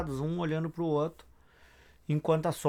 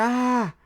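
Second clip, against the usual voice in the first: high, loud cry of terror; terrified scream; 7 semitones higher, 5 dB louder than usual. A narrator's reading. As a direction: let out a short panicked yell. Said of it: "o senador se apavora e grita". (grito curto de pavor)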